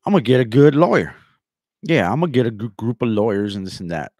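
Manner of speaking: blustering mock quote, easing off; mock boast. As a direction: play him bragging, loud at first. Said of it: "then he comes back and says".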